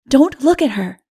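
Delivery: frightened cry. Acted. Odu warns his friend, frightened and loud. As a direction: pull him back with your voice. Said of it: "he cried".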